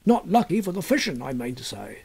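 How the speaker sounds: a fisherman's folk warning; lightly voiced country old-timer; superstitious villager. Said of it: "said a third".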